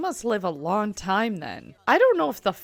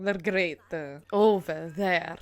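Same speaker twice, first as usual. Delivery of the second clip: imitated rolled-R accent. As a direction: exaggerate the rolled R's of an odd accent. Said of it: "really rolling his R's".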